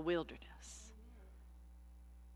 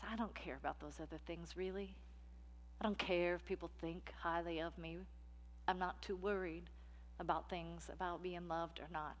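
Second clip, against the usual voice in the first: softer, tired and hushed; weary inner voice; 7 dB quieter than usual. Acted. The tired soul longing to be okay, softer and hushed. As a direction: sigh it out, worn down.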